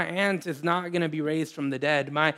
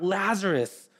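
mild mock call; 3 semitones higher than usual. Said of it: "he yells out".

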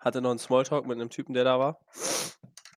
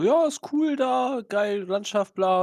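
imitating gym guy; 7 semitones higher, much slower than usual.

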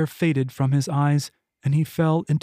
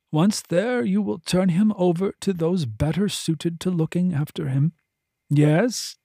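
a lightly raised, measured voice of authority; voluptuary ordering the escort, composed and firm; commanding voluptuary; 3 semitones higher than usual. Acted. Voluptuary instructing Henley, calm and commanding.

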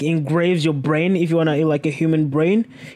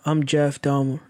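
low Dahmer voice; 3 semitones lower than usual. Pretend. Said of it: "we're gonna do with that accent".

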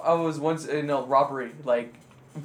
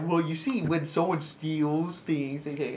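patronizing; 4 dB quieter, slower than usual. Retold or imitated. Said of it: "they patronized you".

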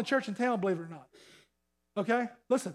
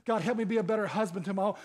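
persistent prayer; 6 semitones lower, 4 dB quieter, faster than usual. Acted. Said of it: "go to God with persistently".

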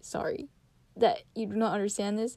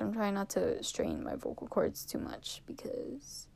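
soft real whisper to save her voice; 9 dB quieter than usual. Real, not acted. To her viewers, sparing her strained vocal cords, in a real whisper. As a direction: whisper it so your cords rest.

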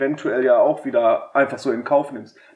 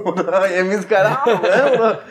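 laughing; 5 semitones higher, 3 dB louder than usual. Retold or imitated. Laughing through own retold thought.

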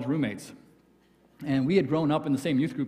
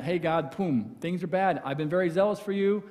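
woe is me; 3 semitones higher than usual. Retold or imitated. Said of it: "the woe is me M P three".

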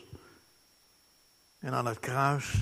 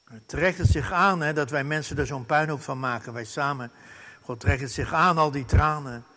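ordinary talk

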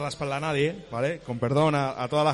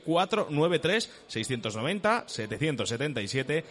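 ad read. Acted. Sponsor ad read on air.

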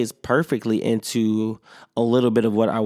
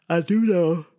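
through a yawn; 7 semitones higher than usual. Real, not acted. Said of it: "I keep yawning".

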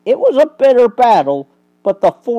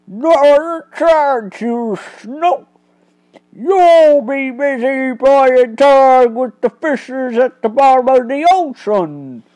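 sneering crook; 6 semitones higher, 4 dB louder than usual. Acted. Crook threatening to drown the detective, loud sneer. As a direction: threaten him with a cruel grin.

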